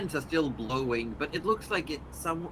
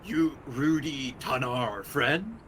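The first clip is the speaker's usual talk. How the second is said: simple creature voice; slower than usual. Acted.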